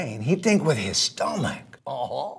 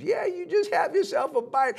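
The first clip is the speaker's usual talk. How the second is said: sly dog. Acted. Dog invites gator to eat.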